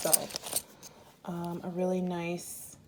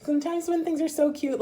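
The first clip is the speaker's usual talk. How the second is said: giggling through the words, higher and louder; laughing; 11 semitones higher, 6 dB louder than usual. Real, not acted. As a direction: laugh out loud while explaining. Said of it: "I'm laughing".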